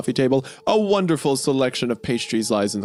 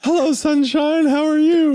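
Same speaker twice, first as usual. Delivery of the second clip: sing-song cheery greeting; 12 semitones higher, 4 dB louder than usual. Acted. Greeting the morning sun, sing-song cheery. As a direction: coo it loudly and brightly, dragging the words.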